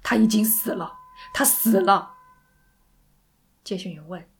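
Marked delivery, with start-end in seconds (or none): 0.0-2.2 loud, anguished growl without raised pitch; low roar. Acted. Sandy telling operator her friend is dead, roaring low. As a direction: push it out with force. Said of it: "山迪低吼着".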